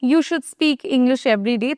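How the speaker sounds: very slow, careful example sentence. Shown as a demonstration. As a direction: spell out each word for learners. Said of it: "example sentence slowly". (ধীরে ধীরে উদাহরণ)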